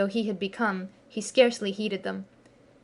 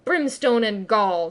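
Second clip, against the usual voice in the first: slow mock-Hook retort; retort in Hook's voice; 5 dB louder, slower than usual. Peter mocking Hook, slow echoing retort. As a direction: fling Hook's own oath back. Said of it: "the voice retorted".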